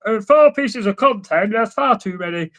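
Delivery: whiny nerd impression; nerdy voice. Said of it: "I won't do my nerdy voice".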